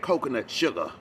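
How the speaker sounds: lightly mimicked Black Southern belle accent; mock Black Southern accent. Vlogger repeating what the cook said, mock Black Southern accent. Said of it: "That's her black accent when she tries to talk like a black Southern belle".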